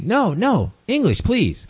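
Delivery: high-pitched, insistent mock plea; imitating the doctor. Doctor keeps asking for English, imitated high plea. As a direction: lift the pitch high, imitating her protest. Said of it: "she kept on saying".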